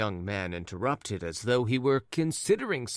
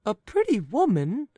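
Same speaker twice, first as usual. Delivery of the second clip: high, loud incredulous wife; the wife pounces on his words; sharp wife; 13 semitones higher, 6 dB louder than usual. Acted. Wife cutting in on her old husband, high and sharp. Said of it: "interrupted his wife".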